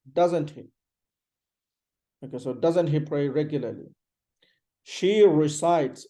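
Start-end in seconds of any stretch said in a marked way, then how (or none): 4.8-6.1 recites with a heavy R, ri-SITES, slowly; "recites" with a weighty rounded r. Shown as a demonstration. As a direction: say She recites slowly, leaning on the r. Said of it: "This R is heavy".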